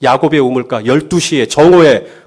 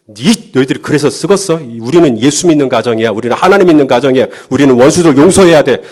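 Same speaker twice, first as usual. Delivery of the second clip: hurried lecture building louder; mildly pushy scolding; 3 dB louder than usual. Acted. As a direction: press the kids with a mock parental lecture. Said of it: "막 이렇게 밀고 나가면". (몰아붙이듯 훈계하는 말투)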